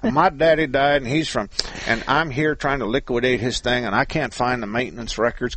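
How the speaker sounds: put-on a light Texas accent for the seller's sob story; lightly voiced Texas seller pleading. Host imitates the seller's excuses in a light Texas accent. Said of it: "I'm doing a Texas accent for the Milwaukee guy".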